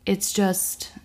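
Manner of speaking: blissful unvoiced whisper. Real, not acted. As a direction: whisper it like a guilty pleasure. Savouring the ice cream.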